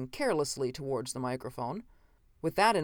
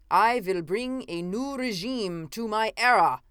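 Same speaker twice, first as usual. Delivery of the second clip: 1 fairly shouting; 6 semitones higher, 4 dB louder than usual. A narrator's reading. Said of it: "fairly shouting now".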